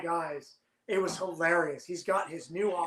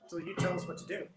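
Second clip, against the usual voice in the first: mock innocent crew; 9 dB quieter, much faster than usual. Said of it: "He goes".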